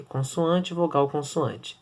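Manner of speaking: each word set apart, slowly; slow spelled out. Shown as a demonstration. Teacher spelling out CVC for the class, slow and deliberate. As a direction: lay out consonant, vowel, consonant one by one. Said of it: "O que que é o C V C?".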